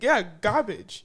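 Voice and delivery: "garbage" said as "gah-bidge", r dropped; own accented pronunciation. Retold or imitated. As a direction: insist on "garbage" without any r. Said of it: "Did you just say garbage?".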